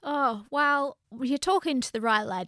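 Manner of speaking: put-on playful Scottish accent; broad Scottish accent for a joke. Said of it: "You're Scottish all of a sudden".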